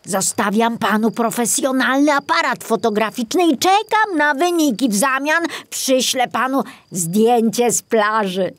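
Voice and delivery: put-on old forester encouraging his successor; reassuring old forester. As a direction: promise him help. Kobiela's voice.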